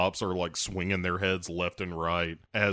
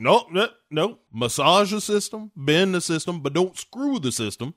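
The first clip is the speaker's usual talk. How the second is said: higher, louder, pleading with each line; a frantic lawyer counting off options; pleading Southern lawyer; 7 semitones higher, 3 dB louder than usual. Retold or imitated. Lawyer begs Charlie Sheen not to screw the system, in a high, loud plea. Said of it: "the lawyer's like".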